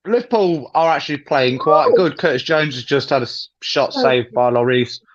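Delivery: eating while commentating; words chewed around food; mouth full. Real, not acted. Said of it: "You can tell I'm eating".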